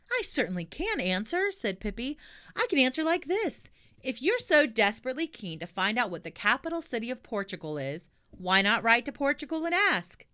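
put-on high, pert girl; sassy little girl; cheeky girl voice. Pippi retorts.

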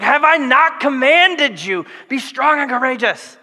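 a firm fatherly yell, half-hearted; mock yelling the command; mild yell. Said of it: "he had to yell at him a little".

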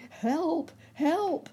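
very high, loud cry; shout for help. A narrator's reading. Rabbit calling for help at the fire, high alarmed shout. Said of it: "shouted Uncle Wiggily".

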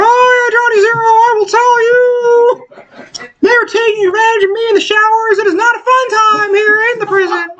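high, whiny hammed-up prisoner; mock prisoner voice. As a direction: squeal it high like a wailing inmate. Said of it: "He's like".

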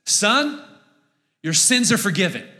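Jesus. Acted. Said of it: "and he says".

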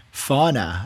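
"Fauna" as two syllables, FAW-nuh; suggested pronunciation. Shown as a demonstration. Co-host suggesting how the name goes, suggested pronunciation. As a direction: offer "Fauna" plainly as FAW-nuh, falling. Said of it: "I guess, right?".

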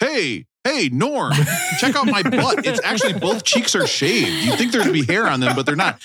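high, goofy puppet-alien voice; squeaky sitcom alien voice; Alf. Retold or imitated. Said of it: "Do you guys like my Alf impression?".

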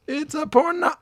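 high-pitched panicked blurt. Retold or imitated. Homer blurting quote.

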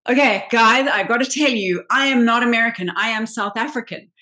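emphatic confession. Retold or imitated. Actress admitting her real nationality to castmates, emphatic confession. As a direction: come clean with emphasis.

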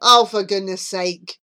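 exasperated. Acted. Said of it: "Charlie exclaimed".

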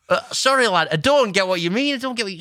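high-pitched mock bafflement; bewildered, pitched right up; confused, baffled. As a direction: imitate a mate who is totally lost. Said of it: "so he was all confused, like, baffled".

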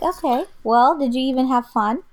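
a light take on a laid-back dad; imitating dad. Dad's calm question, retold.

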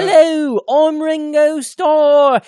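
loud, high, slowly drawn-out announcer voice; bad impression of a musician. Host's musician impression sliding into Robin Leach, high and drawn out. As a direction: belt it out high, stretching the words grandly. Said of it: "is actually Robin Leach".

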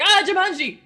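high, loud, laughing Ah Jumanji; mock dramatic movie delivery; mock slow movie line. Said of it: "They're like".

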